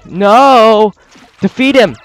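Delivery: loud cries of no; desperate shout. Real, not acted. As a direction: yell at the losing fight. Losing Pikmin, crying out.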